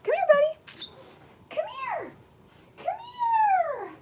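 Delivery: very high, loud coaxing call; high pet voice. Real, not acted. Owner luring her puppy to be grabbed, high pet voice. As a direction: sing it up high to lure the dog.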